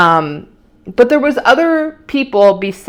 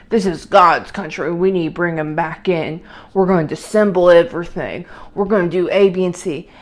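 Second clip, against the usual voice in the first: light Southern accent, mocking a politician; 4 semitones lower, 3 dB quieter than usual. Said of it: "I know I'm doing a Southern accent".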